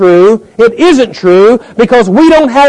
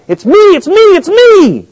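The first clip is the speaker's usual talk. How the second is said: high, hammed-up baby wail; a touch of a crying baby insisting on attention; whining baby; 11 semitones higher than usual. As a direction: play a demanding infant, lightly. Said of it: "they're saying this".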